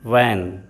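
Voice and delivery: वैन said slowly with a clear v and short flat ae vowel; English van. Shown as a demonstration. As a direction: model वैन carefully for learners. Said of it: "तो इसका उच्चारण क्या हो जाएगा".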